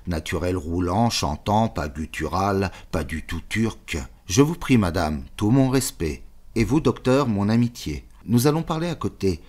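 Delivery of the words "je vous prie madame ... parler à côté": put-on the general's courtly Russian-accented greeting, pitched higher. Roll the words in a light Russian accent. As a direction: general welcomes the doctor and lady with a rolling Russian accent. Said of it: "Je dirais plutôt l'accent russe".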